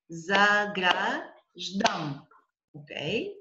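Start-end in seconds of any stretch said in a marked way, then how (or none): 0.1-2.2 "заграждам" slowly as "за-гра", pause, "ждам"; split after second syllable. Shown as a demonstration. Teacher shows second syllable split, broken slowly. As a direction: stretch "заграждам" and break it before "ждам". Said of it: "after the second syllable".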